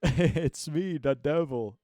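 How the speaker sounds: loud, booming devil voice. Acted. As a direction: boom it out as a mock devil. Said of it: "a troll".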